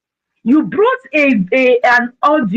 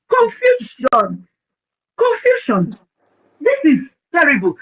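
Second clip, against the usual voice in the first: high, slow mock cry of confusion; a stretched, high-pitched exclamation; exclaiming; 6 semitones higher than usual. Real, not acted. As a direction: draw out the word, pitched way up. Mocking the chaos on the show.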